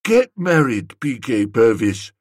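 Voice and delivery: earnest. Acted. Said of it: "said Gussie earnestly".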